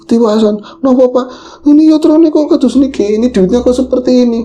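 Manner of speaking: high, theatrical Javanese ketoprak voice; ketoprak-style Javanese. Retold or imitated. Shopkeeper and buyer in a ketoprak-style Javanese exchange. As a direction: ham it up like a Javanese ketoprak player. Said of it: "Aku nyontohin tiru-tiru di ketoprakan".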